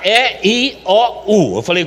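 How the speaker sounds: ordinary delivery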